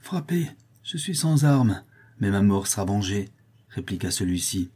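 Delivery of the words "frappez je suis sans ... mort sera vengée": defiant dare. Acted. Unarmed Buridan defies the blades.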